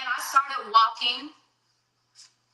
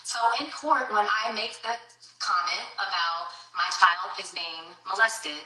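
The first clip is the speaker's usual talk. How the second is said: ordinary talk, nothing marked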